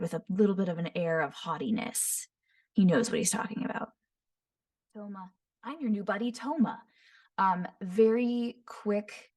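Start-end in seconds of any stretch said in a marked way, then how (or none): 5.6-6.9 lightly voiced, cheerful and friendly; a hint of a smiley new buddy; Toma's voice. Shown as a demonstration. Voice actor demoing a friendly retainer greeting, lightly cheerful. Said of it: "smiley, happy".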